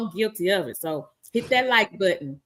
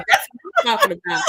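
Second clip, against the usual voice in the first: excited cheer; 4 dB louder, faster than usual. Real, not acted.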